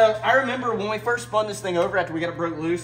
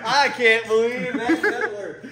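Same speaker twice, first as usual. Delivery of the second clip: excited; 7 semitones higher, 5 dB louder, much slower than usual. Real, not acted. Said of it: "I just spit everywhere with excitement".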